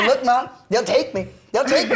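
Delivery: put-on high, laughing kid pleading; laughing child plea. Guest retelling a childhood threat to his mom, laughing and high. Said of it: "I go".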